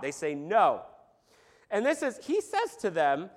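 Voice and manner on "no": a blunt, louder grumpy no; a flat, fed-up no with some push. Retold or imitated. Fishermen repeating their answer, blunt and grumpy. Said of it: "Like a bunch of grumpy fishermen".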